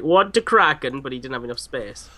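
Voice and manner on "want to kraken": mock Greek accent, a bit louder; lightly hammed-up Greek accent. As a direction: play it as a Greek commander with a thick accent. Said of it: "is actually a Greek and he's just like".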